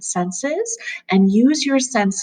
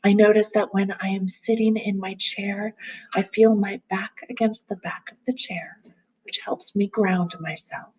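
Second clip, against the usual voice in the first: calm grounding exercise. Acted. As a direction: gently guide them through noticing.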